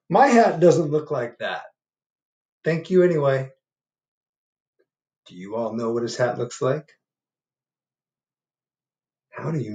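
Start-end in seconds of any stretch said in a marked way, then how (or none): 0.1-3.5 bear voice. Acted. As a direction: ask like a lost, patient bear. Bear replies.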